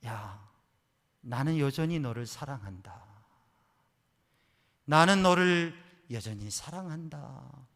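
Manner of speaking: swelling, loud declaration of love; voice of God. Retold or imitated. God answering the weeping daughter, building loud. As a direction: build to a ringing promise. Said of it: "하나님의 음성이 들리더래요".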